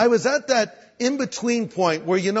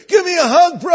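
overeager Christian bro; 11 semitones higher, 8 dB louder than usual. Retold or imitated. Stranger greeting Greg with overfriendly, high loud enthusiasm. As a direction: greet him like an old friend.

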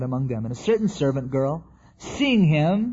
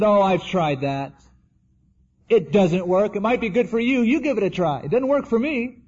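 lightly mocking, higher-pitched dismissal; scornful dismissal; 4 semitones higher than usual. So-called Christians brushing off faith, mock scornful. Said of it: "in the seat of the scornful".

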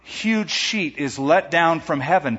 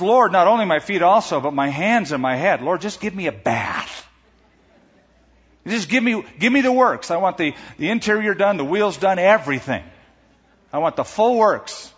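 overeager Peter; 4 semitones higher than usual. Acted. Peter's overreaction, voiced eagerly.

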